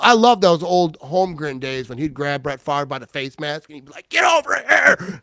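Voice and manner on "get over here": high, loud, slowed mock yell at the quarterback; retold coach yell. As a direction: bark it like an old-school coach grabbing a face mask. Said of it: "and just start yelling".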